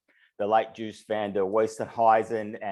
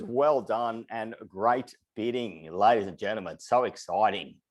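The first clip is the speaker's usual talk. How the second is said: breathless after fast calling; winded, catching breath between words. Real, not acted. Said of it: "running out of breath here".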